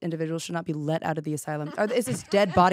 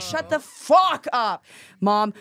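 angry yell; 4 semitones higher, 5 dB louder, much slower than usual. Retold or imitated. Retold snapping at mom.

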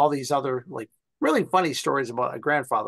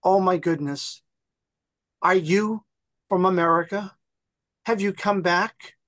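put-on old lady surprised; 5 semitones higher than usual. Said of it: "And she goes".

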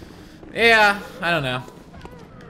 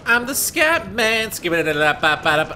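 robot voice; 3 semitones higher than usual. Retold or imitated. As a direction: copy the chat robot's scat-singing line. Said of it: "please have robot voice".

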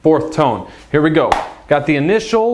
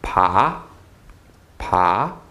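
"Pa" rising from low; questioning upward "Pa"; rising second tone; 7 semitones lower than usual. Shown as a demonstration. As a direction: lift the pitch through each "Pa". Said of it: "Second tone again".

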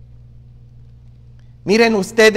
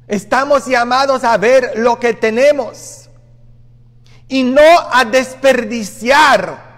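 louder, forceful preaching cry; preaching shout; 4 semitones higher, 3 dB louder than usual. Real, not acted. Preacher warning the congregation not to waste, shouting. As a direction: drive the warning home to the crowd.

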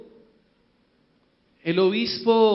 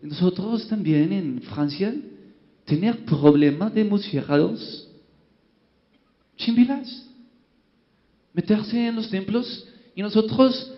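put-on slow broken Spanish in a French accent; French monseigneur groping for words in French-accented Spanish. Jean-Pierre explaining to the bishops, slow French accent. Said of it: "El Monseñor Jean-Pierre empezó".

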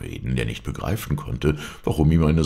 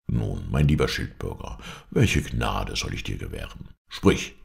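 lightly voiced king, lower pitch; a hint of lower-pitched royal condescension; gracious king; 6 semitones lower than usual. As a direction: grant a favour from the throne. King grants a townsman a favour.

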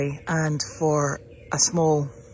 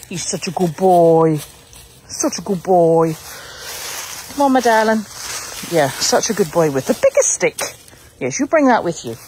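dog praise; 5 dB louder than usual. Real, not acted. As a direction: gush over the puppy. Praising the puppy.

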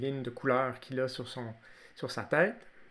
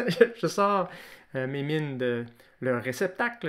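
talking with lips pressed shut; mouth closed; 4 dB louder than usual. Real, not acted. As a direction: speak through a closed mouth. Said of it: "je suis capable de parler la bouche fermée".

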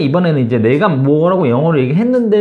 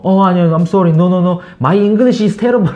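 mock flustered; 3 semitones higher, 4 dB louder, much slower than usual. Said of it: "급소심해져서 막".

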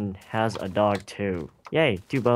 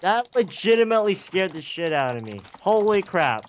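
shaken; 8 semitones higher than usual. Real, not acted. After Enderman scare.

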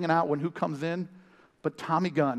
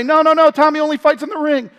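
manager voice; 10 semitones higher, 10 dB louder than usual. Retold or imitated. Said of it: "the manager gets in the way".

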